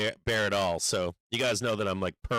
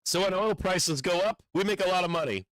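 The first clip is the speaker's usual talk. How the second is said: raised, put-on Trump impression; hammed-up boastful president, pitched up; mock Trump voice; 6 semitones higher than usual. Streamer mocks Trump bragging about oil, hammed-up impression. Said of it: "He's like".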